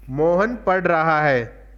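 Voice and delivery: "मोहन पढ़ रहा है" as a slow statement, settling down at the end; plain statement. Shown as a demonstration. Teacher giving students an example of a simple sentence, plain statement. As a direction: draw out "मोहन", then state the rest evenly. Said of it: "सामान्य सूचक".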